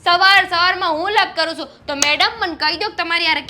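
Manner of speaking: sarcastic, offended retort that bursts out loud on વાહ; sister-in-law fires back at being called quarrelsome, loud and indignant; indignant outburst. Acted. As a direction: throw the accusation back, stung.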